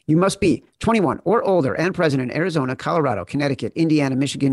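rapid disclaimer read; fast legal disclaimer. Acted. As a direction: rattle off the fine print.

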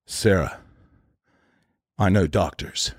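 low, halting, understated movie line; Keanu. Retold or imitated. Actor on his third take, understated emotional impression. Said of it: "he's supposed to be really emotional".

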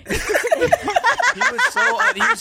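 laughing high through the word. Real, not acted. Friend laughs while slamming a boring contestant. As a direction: breaks into laughter mid-word.

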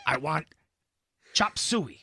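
halting, lightly put-on film-star voice; bad celebrity impression, spaced-out delivery; Jack Nicholson. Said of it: "It's a terrible Jack Nicholson".

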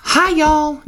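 opening phrase. Shown as a demonstration. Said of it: "trying to think of my opening phrase".

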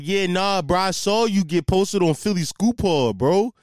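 lightly voiced dopey coworker; mildly mock him as an eager bro; hint of a put-on Canadian dude; mock Canadian idiot coworker. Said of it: "I give him this Canadian accent".

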